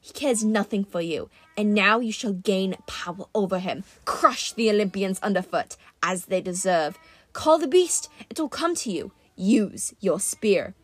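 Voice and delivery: coaxing monster voice, lightly voiced; a persuasive beast tempting her; lightly voiced Manticore, coaxing; menacing Manticore.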